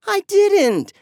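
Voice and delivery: high, loud protest on didn't; defensive. A narrator's reading. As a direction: snap back a denial. Kids blame each other.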